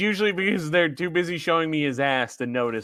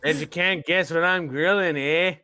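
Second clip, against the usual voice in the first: put-on Australian accent. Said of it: "did you do an Australian accent".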